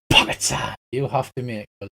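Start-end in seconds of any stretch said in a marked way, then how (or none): 0.1-0.8 whispered "Pocket sand" with a puff of air. Acted. Kenku blows sand in the hero's face, whispering. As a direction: hiss it out like a trick. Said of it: "blows it in your face and goes".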